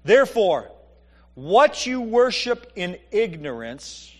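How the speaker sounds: measured pulpit reading; scripture reading, slow and deliberate. Acted. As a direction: read it slowly, pausing before the key word. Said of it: "And Paul says this".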